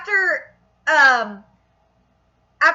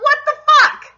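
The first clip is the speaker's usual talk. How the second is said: high, loud burst of outrage; pissed off; 11 semitones higher, 5 dB louder than usual. Retold or imitated. Fan reacting to a cut line, pissed off. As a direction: explode in exasperated disbelief. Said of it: "it pissed me off".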